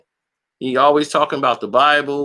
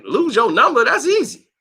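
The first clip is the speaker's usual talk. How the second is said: sarcastic comeback; 9 semitones higher than usual. Retold or imitated. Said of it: "I'm like".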